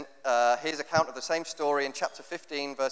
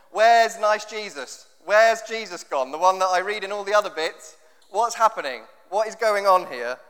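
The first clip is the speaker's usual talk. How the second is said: higher, louder, half-laughing mock confusion; bewildered reader; 5 semitones higher, 7 dB louder than usual. Reader baffled by rude Jesus, louder and higher with mock dismay. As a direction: ham up the puzzled reader's questions. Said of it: "you think".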